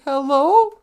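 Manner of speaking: questioning hello, lightly cat-like; cat saying hello. Retold or imitated. Host imitates her cat at the door, questioning hello. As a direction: say HELLO as a rising feline question. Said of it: "sounds like he's saying".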